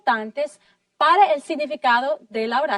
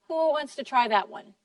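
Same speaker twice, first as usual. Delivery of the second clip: usual speaking voice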